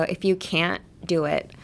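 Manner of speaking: CAN'T with the t held back before DO IT; silent T. Shown as a demonstration. Teacher showing the silent T, can't without t. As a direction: swallow the T in can't and go on to do. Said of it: "is silent".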